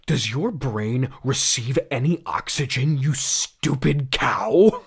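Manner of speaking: slow, mock savage insult. Doctor Bell insulting Conan Doyle, mock savage. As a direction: drag out the insult with hammed-up venom.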